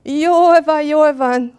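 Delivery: high, loud, panicky giving-in; anguished storybook groan; tiger's groaned surrender. A narrator's reading. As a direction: wail it as the tiger gives up. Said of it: "nyögte tigris".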